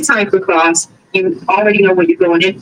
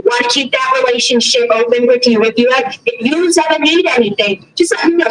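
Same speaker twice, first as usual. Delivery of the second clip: lightly voiced chatty Boston neighbor, higher; nosy neighbor voice; 4 semitones higher than usual. Narrator mimicking neighbor's welcome speech, a touch higher.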